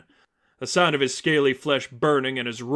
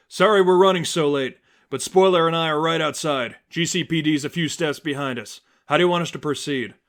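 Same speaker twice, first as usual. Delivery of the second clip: ally on radio; 3 semitones higher, 4 dB louder than usual. Acted. Ally over the cowl radio.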